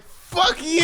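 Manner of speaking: high, loud imitated shout; full-voiced mock outburst; road-rage yell. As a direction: act out yelling at another driver.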